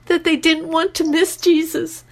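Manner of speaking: on the edge of tears, choking up; voice breaking with emotion. Real, not acted. Telling her radio host about Lulu, voice breaking. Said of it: "Sorry, I'm getting emotional again".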